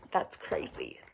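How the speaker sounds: astonished whisper to the class; hushed wonder at how little they sleep; amazed whisper. Real, not acted. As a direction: whisper it in disbelief. Amazed aside to the kids.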